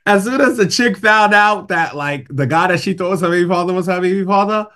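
words broken up by laughter; laughing while telling. Real, not acted. Retelling the Maury episode to guests, laughing through it. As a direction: tell it while cracking up.

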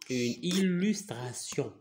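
"illustration" slowly, softly drawn out; slow model pronunciation. Shown as a demonstration. Teacher correcting a pupil's word, slow careful model.

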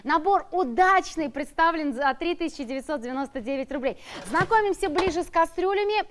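upbeat sales pitch read; infomercial. Acted. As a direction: sell it like a TV shopping host.

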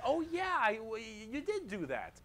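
high-pitched mock orc agreement; gullible orc followers. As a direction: play orcs suddenly convinced by the boss. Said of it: "all the other orcs are like".

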